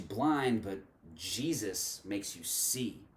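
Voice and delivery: measured poetic recitation with deliberate pauses; spoken word poem. Acted. Reciting a poem on religion and Jesus to viewers, spoken word delivery. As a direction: perform it line by line, leaning on the key words.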